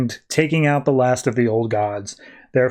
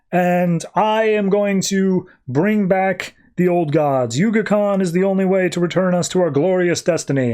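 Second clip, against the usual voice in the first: grand zealot proclamation; 5 semitones higher than usual. Retold or imitated. Priest to the crowd, a lightly hammed-up zealot's proclamation. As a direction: proclaim it like a fanatic prophet to the crowd. Priest declares himself reborn god.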